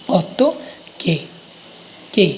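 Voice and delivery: Auto, pause, then के set apart, starting between ग and क; half G, then K. Shown as a demonstration. Teacher drilling the sound for learners, isolated के between G and K. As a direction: split off के and repeat it alone. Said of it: "और क बोलना है फिर".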